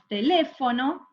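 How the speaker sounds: TELÉFONO said whole, leaning on le; stress on second syllable. Shown as a demonstration. Teacher testing a word's stress, TELÉFONO stressed on le. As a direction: let the weight fall on the LÉ of TELÉFONO. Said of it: "la sílaba tónica es le".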